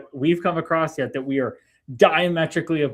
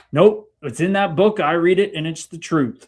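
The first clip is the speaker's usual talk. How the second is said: mimicking a stubborn believer, raised and loud at first; mock dogmatic certainty; 4 semitones higher, 4 dB louder than usual. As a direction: shut it down as the imitated know-it-all. Mimics a closed-minded believer.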